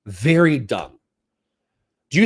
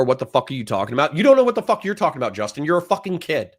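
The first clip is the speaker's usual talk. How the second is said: angry rant; faster than usual. Real, not acted. Streamer berates viewer Justin in an angry, fast rant. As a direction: rattle it off fast and furious. Ranting at a chatter.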